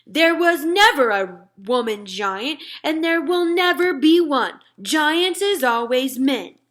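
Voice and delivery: loud, slow giant shout. Acted. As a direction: bellow it while swinging the vegetable.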